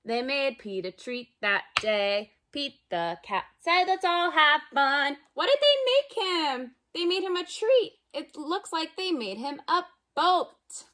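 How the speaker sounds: lively storybook read-aloud for little ones; reading to children. Acted. Teacher reading a picture book to kids at home, lively. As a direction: read it like circle time, bright and playful.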